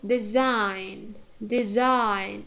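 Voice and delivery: "design" said de-SIGN with a full diphthong; careful repeated "design", weight on SIGN; stressed second syllable. Shown as a demonstration. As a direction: keep de light and stretch SIGN in "design". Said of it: "it has diphthong, yeah?".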